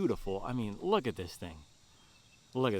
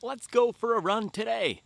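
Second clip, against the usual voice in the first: casual; 11 semitones higher, 6 dB louder than usual. Retold or imitated. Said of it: "it can't be no".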